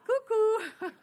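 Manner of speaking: high, loud sing-out with a laugh; mock call to someone being silly; playful teasing.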